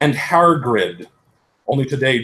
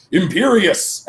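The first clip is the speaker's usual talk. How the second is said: loud, higher villain casting a curse; shouted spell; 8 semitones higher, 4 dB louder, slower than usual. A narrator's reading. Voldemort curses the heroine, loud shout. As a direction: fling the spell out. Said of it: "but then Voldemort shouted".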